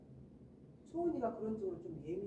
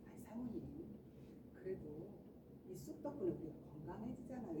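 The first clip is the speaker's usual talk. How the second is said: gentle reply; 2 semitones lower, 8 dB quieter than usual. Acted. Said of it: "어떻게 대답을 하겠어요".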